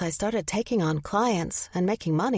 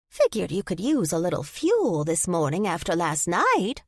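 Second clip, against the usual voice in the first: put-on old lady voice.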